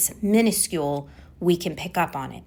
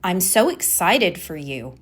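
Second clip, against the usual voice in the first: excited words in an unexcited tone; unconvincing excitement. Shown as a demonstration. Coach showing tone out of sync with words, unenthusiastic. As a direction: say it without meaning the excitement. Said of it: "my tone is".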